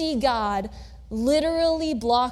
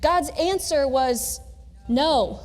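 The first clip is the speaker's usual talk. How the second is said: slow; slower than usual. Shown as a demonstration. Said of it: "I'm gonna do that several times".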